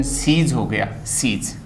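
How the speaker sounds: सीज ending in a voiced ज; common mispronunciation. Shown as a demonstration. Teacher quotes what we hear about engines, common mispronunciation. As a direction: finish सीज on a buzzing j sound. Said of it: "लेकिन ये गलत है".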